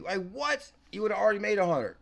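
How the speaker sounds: all-in celebration; hyped up. Real, not acted. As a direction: push everything in, rising hype. Hyped over missed gains.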